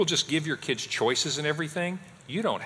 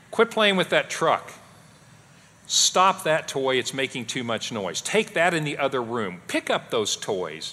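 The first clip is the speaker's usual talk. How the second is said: barking commands. Retold or imitated. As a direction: snap out chores like a tired dad. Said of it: "habit of just barking out random commands".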